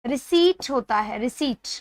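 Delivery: रिसीट with silent p, long ee; correct pronunciation. Shown as a demonstration. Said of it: "इसका right pronunciation". (सही उच्चारण: रिसीट, प silent)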